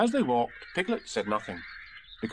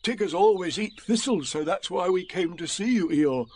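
lightly voiced, higher bear; Pooh; 6 semitones higher, 3 dB louder than usual. A narrator's reading. Bear explaining the visit, in a higher voice. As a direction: explain brightly in a raised pitch. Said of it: "said Pooh".

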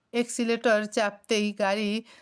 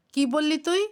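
high-pitched, outraged disbelief; enraged shouting; 6 semitones higher than usual. A narrator's reading. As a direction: narrator acting a furious outburst without full volume. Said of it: "রক্তচক্ষু নিয়ে চিৎকার করে উঠল".

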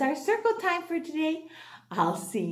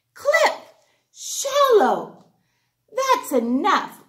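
high, loud firm call to stop; 9 semitones higher, 4 dB louder, slower than usual. Acted. Old Butter stopping the two friends fighting firmly. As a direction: call them to order. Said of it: "Old Butter said firmly".

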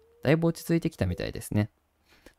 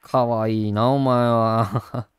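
tender cooing; much slower than usual. Real, not acted. Cooing at his virtual puppy.

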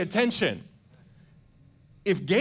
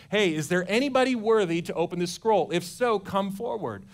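lightly voiced heavenly herald, a bit louder; understated booming announcement; powerful angel's call; 3 semitones higher, 3 dB louder than usual. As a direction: call it out like a mild mock angel to the cosmos. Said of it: "Imagine that powerful voice".

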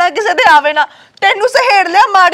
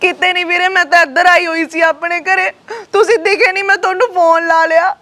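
crying on the phone. Acted. Sister crying to her brother on the phone about her beating. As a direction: cry out the story to him, dragging the words.

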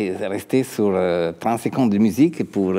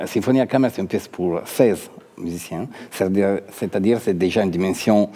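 Italian accent in French. Real, not acted. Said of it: "je m'excuse, mon français".

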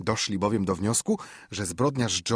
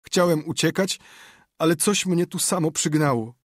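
moaning; 8 semitones higher, 5 dB louder than usual. Acted. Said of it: "zajęczał Potter".

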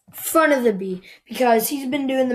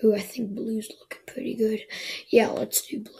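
whispering to self; 6 dB quieter than usual. Real, not acted. Muttering choice to self.

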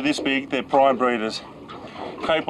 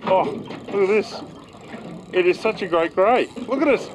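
delighted; 4 semitones higher than usual. Real, not acted. Admiring a big grey fish.

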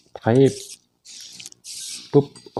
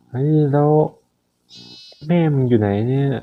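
excited call; 6 semitones higher, 3 dB louder than usual. Real, not acted. Searching frantically for sheep.

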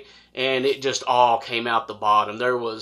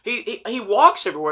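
disbelief; 10 semitones higher than usual. Retold or imitated. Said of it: "And I said".

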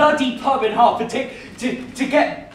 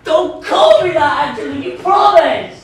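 hurt protest; 3 semitones higher, 5 dB louder than usual. Acted. Boy protests at nickname.

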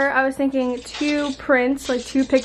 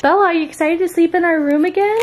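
talking to the dog; 5 semitones higher, 4 dB louder than usual. Real, not acted.

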